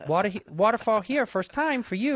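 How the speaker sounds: lightly voiced broken-English son; softly halting questions to mom; Bobby Lee. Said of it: "exactly what you sound like".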